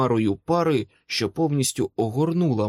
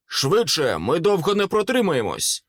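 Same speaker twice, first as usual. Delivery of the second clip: higher-pitched, pressing cry; urgent shout; 6 semitones higher than usual. A narrator's reading. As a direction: urge them on in a raised voice. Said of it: "крикнув Томас". (квапливий вигук)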